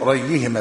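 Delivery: "ريهما" with an open ra and doubled ya; "ريهما": r, short a, held double y; third vowelling. Shown as a demonstration. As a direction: say "ريهما" as rayy-i-hima, without a hamza. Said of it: "بفتح الراء وكسرها وتجديد الياء".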